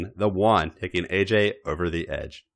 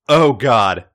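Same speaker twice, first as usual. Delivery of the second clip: breathy exclamation; 7 dB louder than usual. Acted. Character's aroused exclamation.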